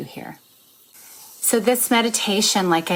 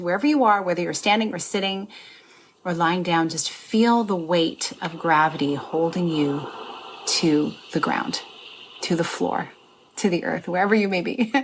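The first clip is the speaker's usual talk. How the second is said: guided meditation. Acted. Guides listeners to feel grounded.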